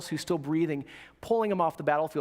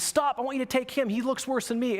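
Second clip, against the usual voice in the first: higher-pitched mock yell, no real volume; retold yell; 6 semitones higher than usual. Wounded Doss stops his stretcher bearers, retold as a mild yell. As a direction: call out urgently in a raised pitch. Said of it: "He yells at the guy".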